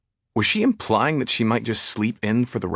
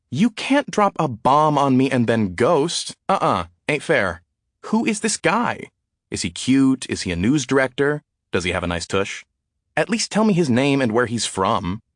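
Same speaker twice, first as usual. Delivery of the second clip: higher, gushing rapid-fire questions; eager gossip; 4 semitones higher than usual. Acted. Texting a friend about her new guy, excited and nosy. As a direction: pester her friend for every juicy detail.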